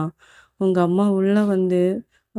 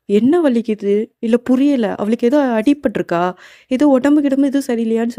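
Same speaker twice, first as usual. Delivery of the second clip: higher, urgent puzzled questions; worried questioning; 4 semitones higher, 4 dB louder than usual. Acted. Uncle asking what hurts her, worried and confused. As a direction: press anxiously for an answer, pitch lifted.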